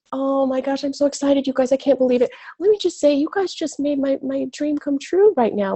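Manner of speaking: thrilled disbelief; real excitement. Real, not acted. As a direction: gush as if a dream just came true.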